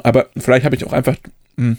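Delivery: talking with a mouth full of chips; chewing while speaking, words muffled by food. Real, not acted. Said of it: "mit vollem Mund".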